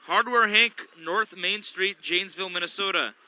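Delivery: punchy radio ad read; announcer plugging Hardware Hank; sponsor read. Acted. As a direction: sell the local sponsor, upbeat. Sponsor read during timeout.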